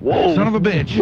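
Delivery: sudden surprised curse; startled curse. Real, not acted. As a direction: blurt it out, caught off guard. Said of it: "first little screw up".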